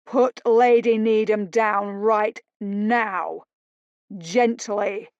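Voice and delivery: slow, loud, firm command; husband ordering the captor to release her; ordered. Acted. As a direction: lay down the law word by word. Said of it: "Paul ordered".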